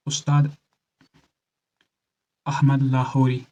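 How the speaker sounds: name split by a long pause; slow and measured for note-taking; slow dictation. Shown as a demonstration. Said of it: "धीरे से बोल रहा हूँ".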